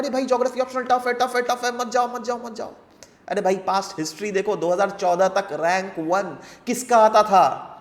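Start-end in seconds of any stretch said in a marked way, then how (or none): 0.0-2.7 rapid, repetitive mock alarm; mock hue and cry. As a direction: imitate a rumour-monger rattling off warnings. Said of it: "हल्ला करना start कर देता है".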